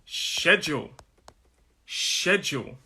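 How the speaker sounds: careful British "schedule", said in isolation; model pronunciation. Shown as a demonstration. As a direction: say "schedule" as SHED-jool, falling. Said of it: "which is this word".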